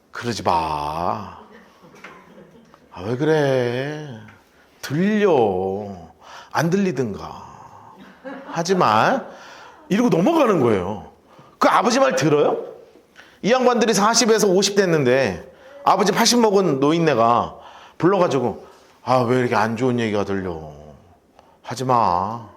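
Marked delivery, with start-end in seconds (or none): 0.1-9.2 put-on slow, low Chungcheong drawl of a feeble old father; soft, dragged-out Chungcheong scolding with long pauses; hammed-up mild old man in Chungcheong dialect; Chungcheong accent. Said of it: "아, 저 충청 좀 하려고요". 19.0-22.5 toothless Chungcheong reproach, lazily stretched; Chungcheong accent. Acted. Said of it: "아, 저 충청 좀 하려고요".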